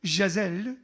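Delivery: enjoy saying "Giselle" as "zheh-ZELL"; relished pronunciation. Shown as a demonstration. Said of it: "I like saying Giselle anyway".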